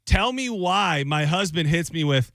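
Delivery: expressive read of a fed-up listener's letter; lightly dramatized advice-column letter. Acted. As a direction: voice the writer's complaint with mild exasperation.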